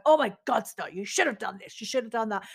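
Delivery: mild mock self-scolding, half-hearted; telling myself off. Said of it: "telling myself off".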